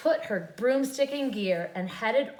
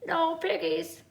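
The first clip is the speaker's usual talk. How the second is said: quacking duck; 7 semitones higher than usual. A narrator's reading. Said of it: "quacked the duck".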